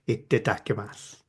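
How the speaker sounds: quoted translator. Retold or imitated. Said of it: "my Japanese translator regularly saying".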